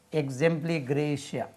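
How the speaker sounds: exempligratia drawn out very slowly, syllable by syllable. Shown as a demonstration. Teacher spelling out the Latin slowly. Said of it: "Abbreviation of".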